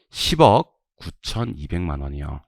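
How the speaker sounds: slow drill reading. Shown as a demonstration. Teacher models amount-reading drill.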